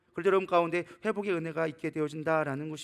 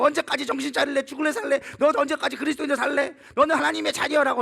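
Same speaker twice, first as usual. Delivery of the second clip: high, louder mock berating; acted pastor's scolding; 7 semitones higher, 5 dB louder than usual. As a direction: nag them in raised exasperation. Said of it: "언제까지 목사가 가가지고".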